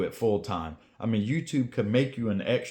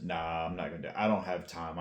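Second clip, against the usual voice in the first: much softer, low dismissive mumble; dismissive mutter; 5 semitones lower, 8 dB quieter, faster than usual. Retold or imitated. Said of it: "I sat back and said".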